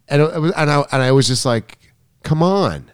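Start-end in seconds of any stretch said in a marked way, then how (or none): 2.2-2.9 mildly exasperated, pitched up; retold touch of annoyance; annoyed. Coach recalling losing patience with a student, annoyed. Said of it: "and I got annoyed".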